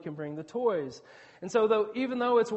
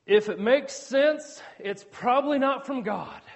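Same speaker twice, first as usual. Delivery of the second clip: mock pronouncement; 3 semitones higher, 5 dB louder than usual. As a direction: parrot a silly saying emphatically. Quotes a saying he mocks.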